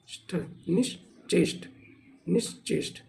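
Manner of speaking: निश्चेष्ट said slowly, every sound drawn out; spelled out slowly. Shown as a demonstration. Teacher showing students how निश्चेष्ट is said, slow and careful. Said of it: "क्योंकि निश्चेष्ट ऐसे नहीं लिखा जाता".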